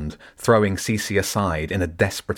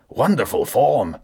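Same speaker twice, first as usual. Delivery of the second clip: slow, raised call across the pond; 6 semitones higher, 4 dB louder than usual. Acted. Zen calls out to Jenny across the pond, slow and raised. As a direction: call it out like a judge. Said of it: "Zen called out".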